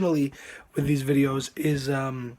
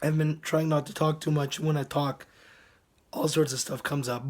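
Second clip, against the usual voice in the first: hoarse. Real, not acted. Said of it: "I've lost my voice".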